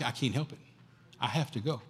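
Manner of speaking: soft, low resigned insistence; Paul quietly insisting he must go; Paul's quiet resolve. Acted. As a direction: say it softly, resigned but firm.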